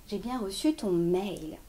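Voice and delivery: "reçu" mis en avant; stress on reçu. Shown as a demonstration. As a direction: lean on "reçu". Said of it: "le fait de l'avoir reçu". (accent sur « reçu »)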